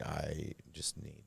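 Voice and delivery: low, flat monotone voice. Retold or imitated. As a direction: say it in a dead monotone. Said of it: "like, monotone voice".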